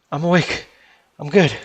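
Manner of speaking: loud, urgent answer; shouted reply. Acted. Dazed Chase answers his yelling friend, shouted reply. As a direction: call back over the din.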